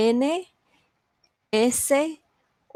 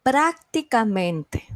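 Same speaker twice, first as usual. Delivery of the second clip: "Prácticamente" slowly, first syllable raised; stress on PRÁC; slower than usual. Shown as a demonstration. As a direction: lean on PRÁC, then let "Prácticamente" fall away. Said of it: "Un ejemplo de una palabra sobre estrújula".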